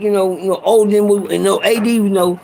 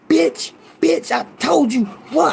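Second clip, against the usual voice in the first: pitched-up snarl while throwing punches; mild mock rage, raised in pitch; mock angry brother; 4 semitones higher than usual. Big brother cursing the coach he's punching, pitched-up mock rage.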